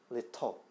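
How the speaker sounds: 리터 with the t as a light flap; 리터 said like 리러, tongue just tapping; 리터 with a quick tapped middle consonant; soft flapped t. Shown as a demonstration. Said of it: "털에 가깝다는 얘기지".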